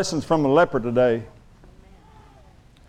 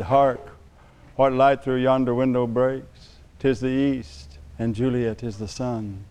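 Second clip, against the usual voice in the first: hammy stage actor; 5 semitones lower, 5 dB quieter, slower than usual. Retold or imitated. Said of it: "I quoted Shakespeare".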